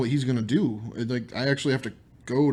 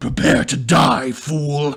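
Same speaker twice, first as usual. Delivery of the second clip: very loud, booming, rasping growl; 2 semitones higher, 8 dB louder than usual. Game master voicing a creature confronting the hero, rasping growl. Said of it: "his rasping growl filling the chamber".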